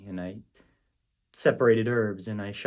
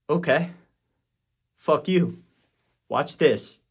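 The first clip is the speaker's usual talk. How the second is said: louder, higher, punched-out defiance; stung, raised-voice comeback; defiant retort; 4 semitones higher, 6 dB louder, slower than usual. Retold or imitated. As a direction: throw down a challenge, hard and raised. Retold defiant vow after rejection.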